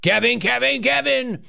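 high sing-song calling of the name; sing-song Kevin call. Acted. Host teasing a caller with a high sing-song chant.

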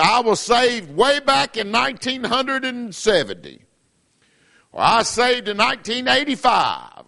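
a hint of a boastful churchgoer; mocking the backslider; mock claims. Mocking people claiming salvation.

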